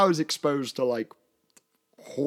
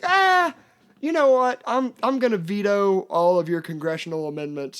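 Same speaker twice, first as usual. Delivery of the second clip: high, loud cry settling into mock-official ruling; yelp, then lay down the law; retold panicked veto; 8 semitones higher, 7 dB louder than usual. Dad overrules daughter's movie choice.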